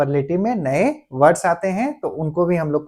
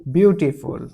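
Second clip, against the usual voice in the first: slow dictation; 3 semitones lower, much slower than usual. Shown as a demonstration. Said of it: "तो comparative हम लोग कैसे बनाएंगे?".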